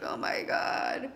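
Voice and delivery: slow breathless whisper of shock; whispered oh my God. Retold or imitated. Reader voicing the anguish of the nine of swords, whispered. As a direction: breathe it out, overwhelmed. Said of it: "It's like".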